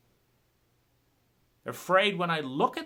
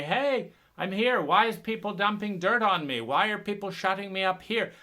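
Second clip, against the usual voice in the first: raised, higher protesting call; 5 semitones higher, 3 dB louder than usual. Retold or imitated. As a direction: shout up from under the dirt. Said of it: "claw out of the soil and say".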